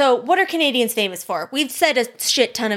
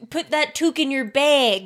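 put-on Canadian accent; 3 semitones higher than usual. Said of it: "what was that accent?".

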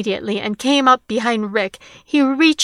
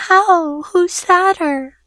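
much higher, slow alarmed questions; shocked child; 8 semitones higher, 4 dB louder, much slower than usual. Acted. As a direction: ask in frightened disbelief. Daughter learns sister shot.

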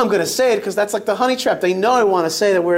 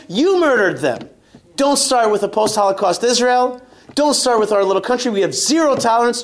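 retold defiance. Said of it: "I said".

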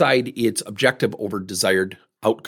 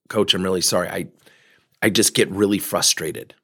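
lower, subdued mock apology; calming down; 5 semitones lower than usual. Dad apologising to the coach, calming down. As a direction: voice a dad settling down as he admits fault. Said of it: "I could tell he was calming down".

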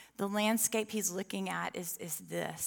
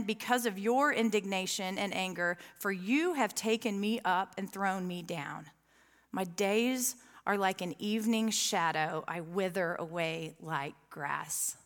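scripture reading; 2 semitones lower than usual. Acted. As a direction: read it out solemnly, sinking on the last phrase. Reads the psalm aloud.

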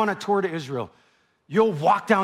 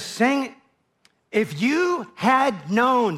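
lament; 4 semitones higher, much slower than usual. Acted. Jesus lamenting over city.

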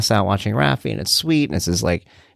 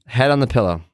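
firm bedtime order. Retold or imitated. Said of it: "and I go".

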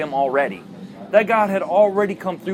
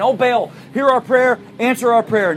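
mock crying out; 4 semitones higher than usual. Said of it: "They start crying out with a loud voice".

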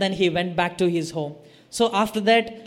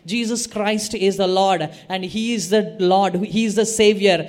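retold shouting. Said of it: "And I will start shouting it".

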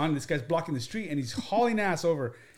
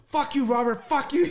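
mock angry; 8 semitones higher than usual. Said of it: "he was so mad".

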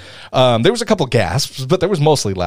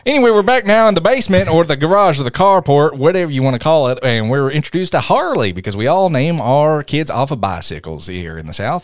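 lively put-on Southern twang; Southern accent. Recapping the movie for co-hosts, in a Southern accent. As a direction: tell it like a folksy Southerner. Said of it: "I really like using a Southern accent".

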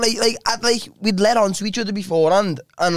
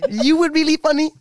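high, put-on Norwegian woman; Norwegian accent; 8 semitones higher than usual. Woman compliments him at the gig, mock Norwegian accent. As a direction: imitate her in a lilting Norwegian accent. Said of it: "about to depict your accent".

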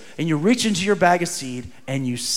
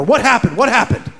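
eager prying; 5 semitones higher, 4 dB louder than usual. Retold or imitated. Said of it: "she goes, with big eyes".

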